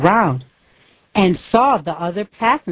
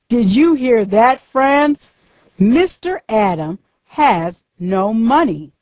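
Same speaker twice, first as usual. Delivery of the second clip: higher, sneering tease to his partner; mocking villain; 5 semitones higher than usual. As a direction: make fun of the rich man's lie. Villain mocks captive to partner.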